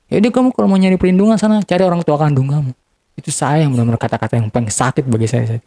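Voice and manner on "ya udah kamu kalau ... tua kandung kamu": higher-pitched, hurried mock scolding; retold angry dismissal. Retelling the hurtful brush-off over the phone, angry dismissal. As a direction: imitate someone sending you away in anger.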